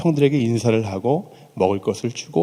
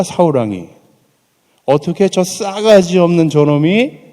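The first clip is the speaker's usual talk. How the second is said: half-acted indignant outburst, louder on the insults; 3 semitones higher, 4 dB louder than usual. David fuming at Goliath's taunts, angry. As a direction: spit out the contempt for the Philistine. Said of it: "제가 센 말들을 할 테니까".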